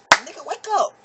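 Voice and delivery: high, loud wake-up shout; urgent shout. Retold or imitated. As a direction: yell him awake. Slapping him awake.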